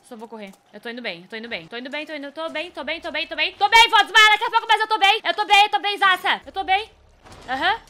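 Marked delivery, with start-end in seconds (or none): 3.3-6.9 loud, high, frantic insisting; panicky self-reassurance. Real, not acted. Gamer near fainting convinces herself she is fine, panicky. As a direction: insist loudly while close to panic.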